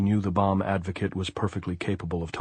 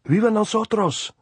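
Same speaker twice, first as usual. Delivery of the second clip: very high, loud cheer; exultant raised voice; shouting; 14 semitones higher, 6 dB louder than usual. A narrator's reading. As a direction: shout it as a rallying cry. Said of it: "Andres shouted".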